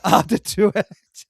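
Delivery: eau de toilette said slowly with a mock French sound; slow and hammed-up eau de toilette. Mock French perfume name.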